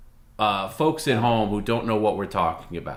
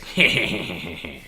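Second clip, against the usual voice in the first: evil laugh; 4 semitones lower than usual. Shown as a demonstration. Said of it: "I'll do it for you".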